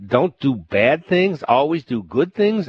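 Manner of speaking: the governor throws the monk's words back in scorn; irritated disbelief. A narrator's reading. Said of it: "Irritated and annoyed".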